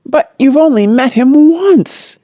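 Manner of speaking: father's half-pleading objection; almost pleading. A narrator's reading. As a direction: plead with her to deny it. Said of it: "he added almost pleadingly".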